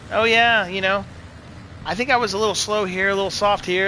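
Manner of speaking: lightly imitated rider, no accent; Ken Roxon. Streamer retelling a rider's modest verdict, light impression without accent. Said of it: "I'm just gonna forego the accent".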